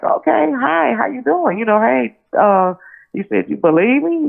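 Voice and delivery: high, giddy phone greeting; geeked, hiding it. Retold or imitated. Greeting Tupac on the phone, geeked but trying to hide it. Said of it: "I'm geeked, but I'm trying not to".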